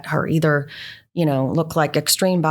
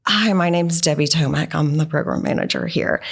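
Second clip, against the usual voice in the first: calm. Retold or imitated. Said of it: "I just handled it calmly like that".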